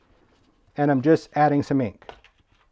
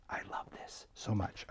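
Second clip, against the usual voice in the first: whispering; 6 semitones lower, 21 dB quieter than usual. Real, not acted. Whispered aside while demoing.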